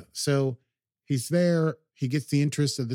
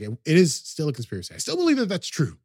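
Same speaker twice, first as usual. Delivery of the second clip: erupting; 5 semitones higher, 4 dB louder, faster than usual. Retold or imitated. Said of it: "she eventually erupts and says".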